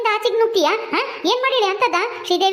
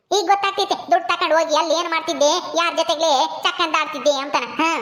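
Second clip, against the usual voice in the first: a lower voice with a scornful laugh at the end; sneering mother-in-law; 4 semitones lower than usual. Acted. Mother-in-law accuses the bride of wasting money, sneering. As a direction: jeer at the bride, dropping the voice.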